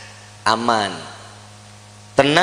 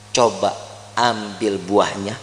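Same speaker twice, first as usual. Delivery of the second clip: low, slow, softened coaxing; 6 dB quieter, slower than usual. Retold or imitated. Hawa tempting Adam to pick the fruit, low coaxing. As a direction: tempt gently in a low, unhurried voice.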